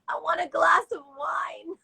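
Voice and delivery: high, gleeful exclamation; retold exuberance. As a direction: declare the wish like a celebration. Exclaims first wish once free.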